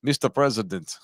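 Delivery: halting try at a Russian accent; tentative Eastern European accent; attempted Soviet accent. Shown as a demonstration. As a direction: imitate a Soviet-sounding leader. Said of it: "that very distinctive Soviet sounding".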